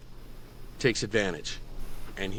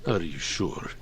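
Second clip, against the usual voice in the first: low taunting question; lightly voiced smug giant; mocking giant; 8 semitones lower than usual. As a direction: needle her, big and smug. Jorn taunts again.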